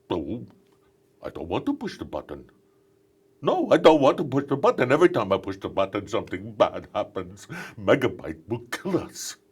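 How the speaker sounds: lightly voiced nervous cartoon robot; a whiny, scared sidekick, only lightly put on; a hint of a timid robot pleading; Hack. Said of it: "he would go".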